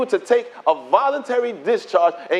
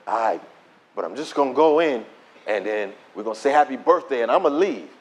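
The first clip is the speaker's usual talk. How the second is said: low, grudging concession; resigned, lower-pitched compromise; reluctant agreement; 9 semitones lower than usual. Retold or imitated. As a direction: act out giving in with conditions. Gives in to friend with conditions.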